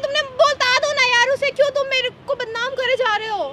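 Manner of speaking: angry pleading. Acted. Girl confronting the friend who defames her, fast angry plea. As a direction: push him hard to admit it. Staged fight, she demands he admit it.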